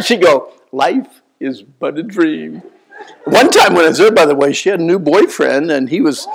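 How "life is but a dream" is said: slow, lightly voiced old lady; slow wistful grandmother; dreamy grandma. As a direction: let it float away slowly. Grandma's refrain again.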